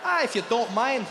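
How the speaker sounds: put-on obliging Scottish-accented waiter; lilting Scottish waiter impression. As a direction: invite him politely in a Scottish accent. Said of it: "I've got the Scottish Indian man".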